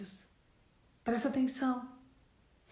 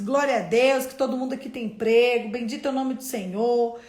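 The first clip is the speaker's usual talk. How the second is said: cheerful loud greeting; 8 dB louder than usual. Retold or imitated. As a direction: call out your good morning to the whole room. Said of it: "Eu sempre falo isso". (saudação animada e bem alta)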